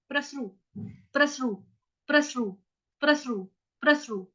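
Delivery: प्रसृ repeated short and crisp; pronunciation drill. Shown as a demonstration. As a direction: clip प्रसृ briefly, again and again. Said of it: "स आधा उच्चारण ही सुनाई देंगे".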